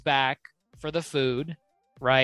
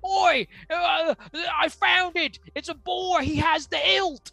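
high-pitched, hammed-up orc voice; exaggerated high orc, stretching the final order; 10 semitones higher than usual. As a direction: bluster like a comic orc leading a search. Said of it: "the orc's like".

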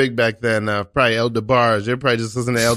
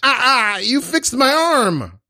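high-pitched cry of amazement; astonished relief; 12 semitones higher, slower than usual. Acted. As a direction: wail in sudden, miraculous relief. Improv arm suddenly healed.

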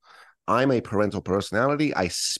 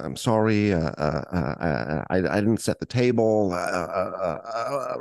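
hesitant, faltering apology; mock timid stammer. Child at dinner table, mock timid stammering. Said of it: "First, the withdrawn".

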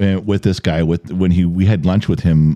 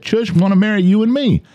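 high mock Australian, words merging; run-together Australian accent; 13 semitones higher than usual. Host quoting friend's misheard line, run-together Australian accent. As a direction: imitate Australian words blurring into one. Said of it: "he just ran it together like it was Chush".

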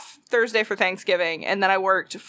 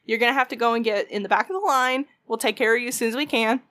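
customer service voice; faster than usual. Retold or imitated. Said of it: "super nice customer service voice".

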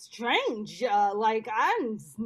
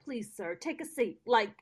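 softer, coolly dismissive; dismissive brush-off; 4 dB quieter than usual. Retold or imitated. To ignorant bigots, a softer, dismissive brush-off. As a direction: dismiss him gently but firmly, softer. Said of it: "And it's like".

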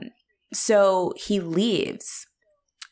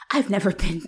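mildly indignant imitation; 2 semitones higher than usual. Visitors acting insulted at their treatment, mock indignant. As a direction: put on a touch of wounded offence. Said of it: "they're very indignant".

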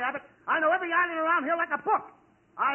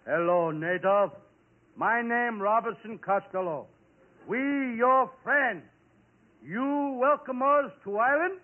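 slow, deliberate talk to a foreigner; pidgin greeting; 4 semitones lower, slower than usual. Acted. Costello greeting a native man, slow and stilted. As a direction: spell it out slowly, word by word. Addressing native in broken English.

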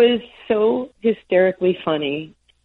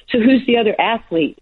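higher-pitched, slightly self-important question; a touch arrogant; 5 semitones higher than usual. Retold or imitated. Athlete asking a gentleman who shares the billing, a touch arrogant. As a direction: ask it with a little swagger. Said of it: "kinda sounds a little arrogant".

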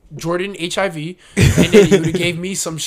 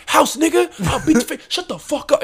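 imitated threat; 10 semitones higher than usual. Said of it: "starts walking to".

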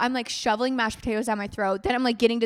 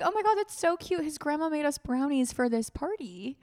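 excited; 5 semitones higher than usual. Retold or imitated. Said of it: "I was like".

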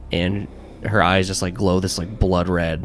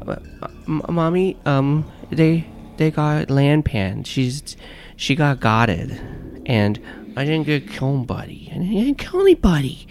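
put-on a small child tattling to mommy; preschooler voice; 7 semitones higher than usual. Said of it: "you like my little kid voice".

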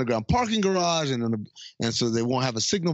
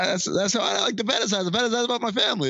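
imitating Charlie Day; 9 semitones higher, faster than usual. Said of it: "And he says".

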